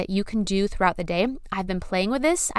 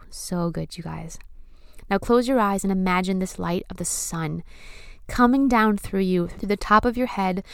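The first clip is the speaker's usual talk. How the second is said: sultry narrator. Acted. Leads breathing visualization.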